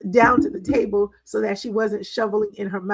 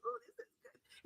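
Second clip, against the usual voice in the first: much higher and softer, a dreamy voiced daughter; delighted foodie; 14 semitones higher, 25 dB quieter than usual. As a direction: coo it like food is heavenly. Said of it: "she's like".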